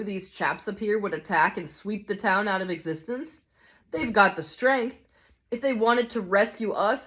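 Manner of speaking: lightly voiced cynical grumbler; a touch of worldly-wise scorn, emphatic; hard-bitten ghost. Ghost recounting a lifetime of lies, lightly voiced cynical grievance. Ghost debunks the official war.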